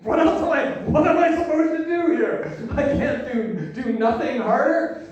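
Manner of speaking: confused. Acted. Young guy to the girl who isn't throwing herself at him, confused. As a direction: plead in hammed-up confusion. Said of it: "which was confusing me".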